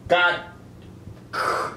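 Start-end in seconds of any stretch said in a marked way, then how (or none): 0.1-0.4 higher mock-Australian voice; put-on Australian accent. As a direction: do a broad Australian impersonation. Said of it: "No, Australians like".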